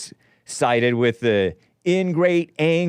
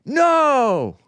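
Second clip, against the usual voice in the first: louder, higher rally cry building to a yelled No; rallying shout; 7 semitones higher, 3 dB louder than usual. Retold or imitated. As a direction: rouse the strikers, end on a big shout. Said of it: "because they're like".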